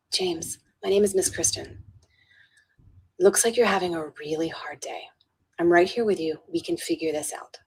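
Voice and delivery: soft, calming voice; gentle reassurance. Retold or imitated. Helper to an upset fourth grader, gently reassuring. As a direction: speak softly to steady an upset child.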